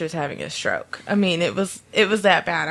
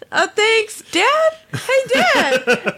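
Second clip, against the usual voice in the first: put-on much higher, louder, laughing teen voice; mimicking freaked-out teen; 3 dB louder, much slower than usual. Teen boy fleeing the creepy drunk lady, high panicked mimic. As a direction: squeak it out like a panicked kid fleeing.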